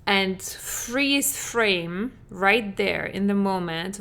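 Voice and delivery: stretched out slowly, each word drawn long; slow it right down like a paused film. Shown as a demonstration. Coach guiding listeners to pause the memory, drawn out slowly. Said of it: "rewind that movie".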